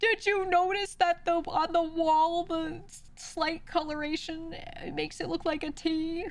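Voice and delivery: mocking, very high, very slow, nitpicking know-it-all voice. Retelling what an annoying backseater said: mocking imitation of a backseater. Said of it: "I'm so pissed at that person being like".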